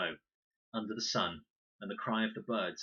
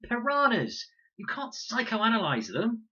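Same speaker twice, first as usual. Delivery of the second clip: high, loud, slow furious outburst; ferocious; 9 dB louder, slower than usual. A narrator's reading. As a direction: spit it out in fury. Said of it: "sharp-boned and ferocious".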